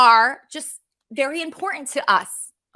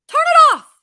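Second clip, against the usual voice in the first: high, loud snapped command; angry shout; 9 dB louder than usual. Real, not acted. Telling the complaining viewer to stop watching, loud and high. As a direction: yell it at the complainer.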